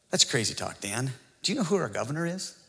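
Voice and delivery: lightly voiced objector, low and soft at first; mildly mock a doubter in an understated voice; quiet, dry imitation of a challenger; skeptical objector. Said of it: "The other side would say".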